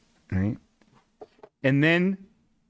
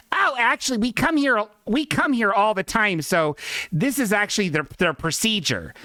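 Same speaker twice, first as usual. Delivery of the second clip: mock lady; 6 semitones higher than usual. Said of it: "this lady's like".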